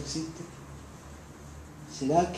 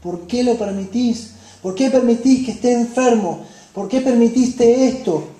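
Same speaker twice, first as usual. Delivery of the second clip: complaining to God; 4 semitones higher, 4 dB louder than usual. Acted. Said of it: "Cuántas veces nos decimos".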